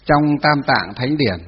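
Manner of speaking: slow, loud dictation with drawn-out syllables; dictating. Real, not acted. Teacher to students writing notes, dictating. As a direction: spell it out slowly for note-takers.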